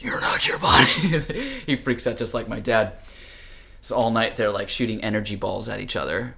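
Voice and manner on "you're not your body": high, loud revelation; booming trippy voice. Retold or imitated. Book speaking to tripping friend, booming proclamation. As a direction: proclaim it like a mystical message. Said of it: "opens the book, and it says".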